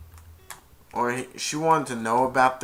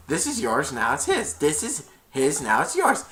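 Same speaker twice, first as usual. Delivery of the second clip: Grinch impression; 4 dB louder than usual. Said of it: "Something like that I'm trying to do".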